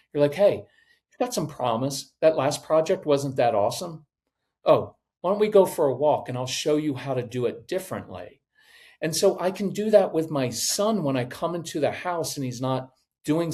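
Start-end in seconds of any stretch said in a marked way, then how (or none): 0.3-8.4 calm supportive boss; encouraging mentor. Retold or imitated. Kind mentor to colleague.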